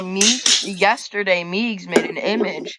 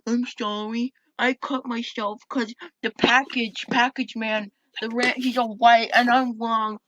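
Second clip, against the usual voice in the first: mock self-pity, higher and soft; put-on victim voice, higher-pitched and quiet; playing the victim; 4 semitones higher, 5 dB quieter than usual. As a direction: imitate a soft, pitiful apology. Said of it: "playing the victim card".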